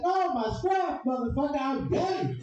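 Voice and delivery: very high, slow correction; hammed-up coworker. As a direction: set him straight like she did.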